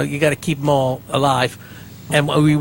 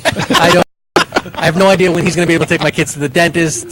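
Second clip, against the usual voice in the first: mock panic. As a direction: rush it out in comic alarm. Panicked rant in bit.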